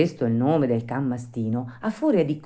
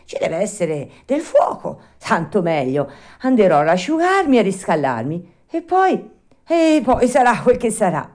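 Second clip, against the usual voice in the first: to himself; 6 semitones higher, 6 dB louder than usual. A narrator's reading. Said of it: "disse allora fra sé".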